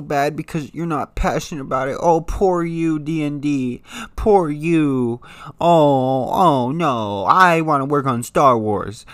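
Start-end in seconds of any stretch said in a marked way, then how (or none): 2.0-3.8 slow, drawn-out sarcastic sympathy; mock pity. Mocking the Game of Thrones writers, slow sarcastic pity. 4.1-7.2 sarcastic sympathy in a put-on voice; mock pity. Sneering at D and D in a put-on pitying voice. Mocking the showrunners' complaints.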